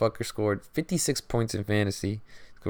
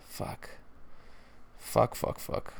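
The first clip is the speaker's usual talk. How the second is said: soft, breathy swearing under the breath; whispered cursing; 2 semitones higher, 9 dB quieter, slower than usual. Real, not acted. Fan alone with his disappointment, whispered swearing. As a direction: curse to yourself in a whisper. Quiet cursing after a sigh.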